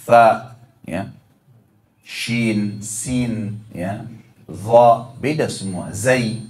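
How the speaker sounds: each Arabic letter "tha", "shin", "sin", "dha", "zai" spoken carefully and kept distinct; Arabic letter sounds. Shown as a demonstration. Teacher to congregation, showing the letters apart, carefully articulated. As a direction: model the Arabic letters one by one, clearly apart. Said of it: "bedakan antara".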